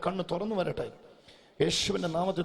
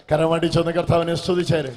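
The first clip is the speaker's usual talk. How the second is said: full-force preaching; 10 dB louder than usual. Real, not acted. Preacher declaring glory upon the boy's eye, full-force preaching. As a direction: declare it with a raised, ringing voice.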